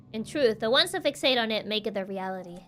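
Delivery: a hint of a sceptical investigator explaining; lightly voiced composed detective.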